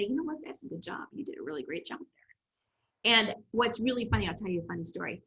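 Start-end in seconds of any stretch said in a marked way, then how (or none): 0.0-3.1 1 self-praise. Retold or imitated. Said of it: "I would say".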